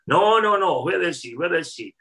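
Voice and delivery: loud, high protest, then insisting; angry shout. Retold or imitated. Furious chef demanding the critic at reception, shouting. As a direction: chef storming reception, refusing to leave.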